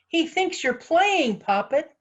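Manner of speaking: high, loud, drawn-out yell; exasperated urgent shout. A narrator's reading. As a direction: shout the explanation over a panic. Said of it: "Nitty yelled".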